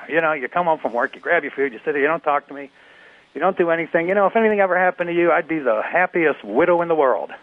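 nagging wife. Acted. Wife going off on husband.

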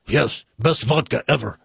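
put-on lightly done Russian accent; a touch of comic Russian; mock Russian husband; mixed-up Russian accent. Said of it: "this Russian accent's gonna sound like".

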